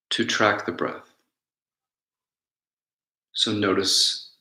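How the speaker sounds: unhurried meditation guidance with long pauses; guided meditation. Real, not acted. Teacher guiding listeners to notice their breath, calm guided meditation. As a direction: guide them gently inward, leaving space between phrases.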